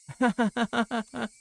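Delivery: a sudden high creepy giggle; eerie high giggle. Acted. Reina laughing at Keiichi as he flees, eerie giggle. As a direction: giggle like a girl who has cornered her prey.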